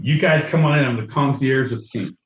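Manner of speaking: loud, high welcoming host; excited host. Pretend. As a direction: hype up the guests at the door. Hosting a kink party, welcoming.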